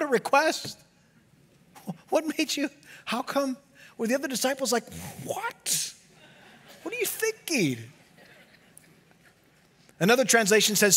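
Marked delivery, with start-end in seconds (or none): 5.2-7.9 mock disbelief. Other disciples reacting to Peter.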